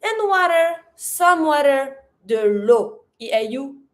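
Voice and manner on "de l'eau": l'eau said as a pure lo; French "de l'eau", EAU as O; O sound. Shown as a demonstration. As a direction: say "de l'eau" as duh lo. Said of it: "O sound".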